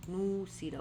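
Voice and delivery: نو سیرہ with a long "oo" in نو, then "ee"; نو سیرہ as "noo-see-ra"; "oo" sound first. Shown as a demonstration. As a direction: draw out the oo in نو سیرہ. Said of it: "او، او sound ہے first".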